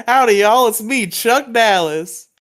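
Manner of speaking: high, loud Texan cowboy drawl; a big proud Texan saying hi; a hammed-up southern accent. Shown as a demonstration. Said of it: "a little southern drawl there".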